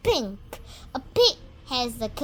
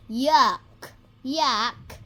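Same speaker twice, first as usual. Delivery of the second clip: mock disgust; 6 dB louder than usual. Disgust at mud.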